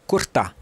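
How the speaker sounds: "cortar" said as "cortá"; R final omitido. Shown as a demonstration. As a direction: end "cortar" on an open stressed A, no R. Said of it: "Você não pronuncia o R no final". ("cortar" sem o R, como "cortá")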